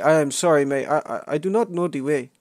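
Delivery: hammed-up Ugandan meme accent; mock Ugandan accent. Asking friends the way to Uganda, mock Ugandan accent. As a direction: put on a joke Ugandan accent.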